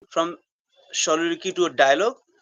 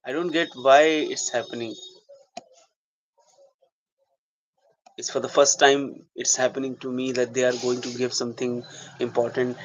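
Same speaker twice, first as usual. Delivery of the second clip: thinking aloud with long pauses; soliloquy. Shown as a demonstration. Actor to himself about not being believed, soliloquy. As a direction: brood to yourself over not being believed. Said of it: "I'm right now going to do soliloquy".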